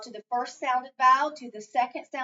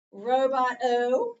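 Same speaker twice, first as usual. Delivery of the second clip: slow reveal; 5 dB louder, much slower than usual. Shown as a demonstration. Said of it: "All right, I have".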